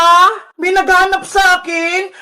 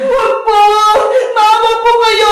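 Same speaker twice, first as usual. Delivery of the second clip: slightly raised, pleading cry; acted pleading; 3 semitones higher than usual. Captive child begging the aswang, pleading. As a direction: beg for mercy, hammed up.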